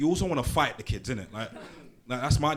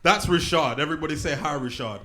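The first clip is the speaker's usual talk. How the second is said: crowd leader; 3 semitones higher, 6 dB louder than usual. Real, not acted. Leading the crowd in greeting.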